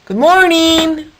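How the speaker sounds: slow drawn-out call. Acted. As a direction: stretch it out, calling. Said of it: "called out again".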